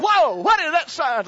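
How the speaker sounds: high, loud and slow double take; mock shock. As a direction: gape at the sign.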